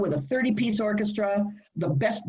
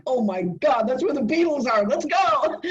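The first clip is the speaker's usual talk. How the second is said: much higher and louder, thrilled; excited; 6 semitones higher, 3 dB louder than usual. Retold or imitated. Answering her husband's London invitation, thrilled and loud. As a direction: burst out with delight.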